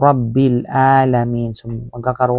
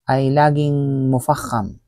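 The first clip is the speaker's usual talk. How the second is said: ordinary talk, nothing marked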